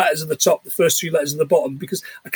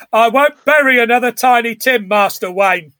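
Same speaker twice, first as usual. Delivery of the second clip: Michael Caine voice; 5 semitones higher than usual. Retold or imitated. Voicing Michael Caine as Alfred.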